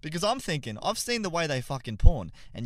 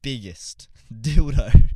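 laughing punchline; 13 dB louder, much slower than usual. Real, not acted.

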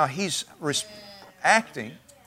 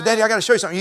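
put-on eager child, higher and a bit louder; high-pitched childlike eagerness; excited child; 6 semitones higher, 4 dB louder, much faster than usual. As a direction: play a kid bursting to show Daddy. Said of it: "you just get excited with them".

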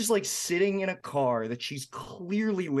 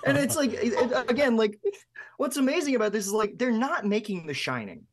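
incredulous laughing; 7 semitones higher than usual. Real, not acted. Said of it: "yelling at her".

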